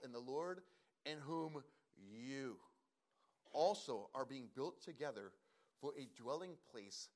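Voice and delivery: solemn public Bible reading; scripture reading. Real, not acted. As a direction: proclaim the verse to the congregation. Reads the opening passage aloud.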